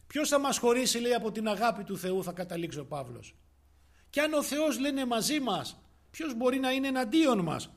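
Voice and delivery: high, loud declaimed scripture; preaching at full force. Acted. Preacher defying any foe with God's word, loud fervent preaching. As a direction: proclaim it as a ringing challenge.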